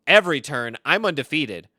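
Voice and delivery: loud, emphatic mock boast; imitated loud gloating; boasting rival. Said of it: "He said".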